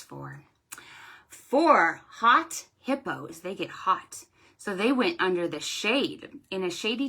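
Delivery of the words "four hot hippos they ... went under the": storytime rhyme. Shown as a demonstration. Librarian reciting a counting rhyme to children. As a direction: read it like a picture-book rhyme.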